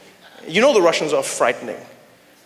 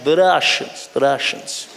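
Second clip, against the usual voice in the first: Russian accent; 3 semitones lower, slower than usual. Shown as a demonstration. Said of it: "There's something about the Russians".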